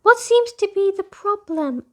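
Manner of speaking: lightly voiced kind girl asking; concerned question. A narrator's reading. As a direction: ask gently what's wrong. Kind sister asks concern.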